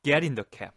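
"get" said strong, one breath; stress on get. Shown as a demonstration. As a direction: punch get, run the rest together. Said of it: "강세를 강하게 주면서". (get에 강세를 주고 한 호흡으로)

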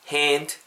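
"hand" drawn out as "haen", no d; dropped final d. Shown as a demonstration. Teacher models the word for learners, "hand" ending on n. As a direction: stretch the vowel in "hand" and drop the d. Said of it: "H A N D 발음하실 때".

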